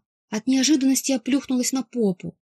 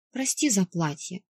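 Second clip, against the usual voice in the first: guilty; 4 dB quieter than usual. Acted. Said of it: "виновато добавила".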